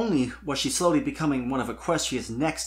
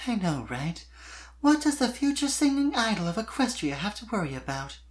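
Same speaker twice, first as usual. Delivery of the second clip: mock grandeur; 9 semitones higher than usual. A narrator's reading. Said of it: "drawing herself up subtly".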